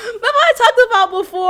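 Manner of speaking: high, loud and laughing through it. Real, not acted. Laughing to viewers while reminding them of an old story.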